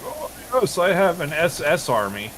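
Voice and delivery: high, smug mock of the friend; gleeful mock boast about the army; high smug mimicry. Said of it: "he was like".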